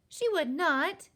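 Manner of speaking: high, loud, slow protest; affronted child's retort; indignant contradiction. A narrator's reading. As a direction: contradict stubbornly, every word punched. Child flatly contradicts the giant.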